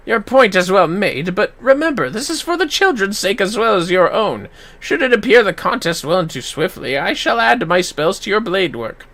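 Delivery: lightly voiced wise caster; reassuring the warrior; calm mage.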